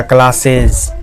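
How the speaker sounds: क्लासेज ending in a voiced "iz". Shown as a demonstration. Teacher showing the plural of class, ending voiced as iz. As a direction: say क्लासेज with a z/j sound at the end. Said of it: "जो के तरह आना".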